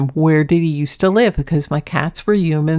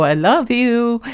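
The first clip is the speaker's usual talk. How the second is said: slow, pitched-up tender retelling; retold I love you; 6 semitones higher, slower than usual. Owner retelling her words to her cat, slow and high. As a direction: stretch it out high, lightly sweet. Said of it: "And then I go".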